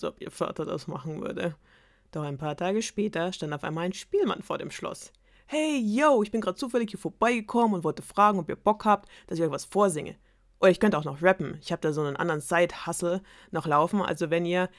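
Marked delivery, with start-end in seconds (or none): 5.5-14.7 slangy minstrel. Acted.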